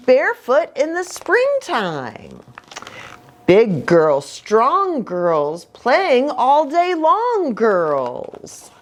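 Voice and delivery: bouncy rhyming read-aloud; reading to children. A narrator's reading. Pastor reads the rhyming book to the kids, lilting.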